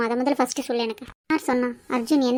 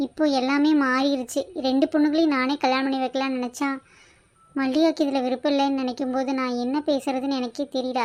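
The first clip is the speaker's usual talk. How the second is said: dejected; 4 dB quieter than usual. Acted. Parent whose hoped-for weddings fell through, subdued and dejected. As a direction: quietly let down and at a loss. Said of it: "எனக்கு ஒரே வருத்தமா இருக்கு".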